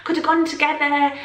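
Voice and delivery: annoyed moan. Retold or imitated. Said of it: "I was really annoyed about it".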